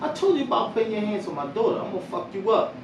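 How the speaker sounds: angry dad calling his son in; retold angry scolding. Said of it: "So I'm like".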